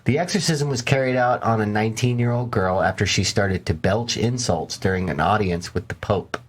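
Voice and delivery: measured documentary-style read; story narration. A narrator's reading.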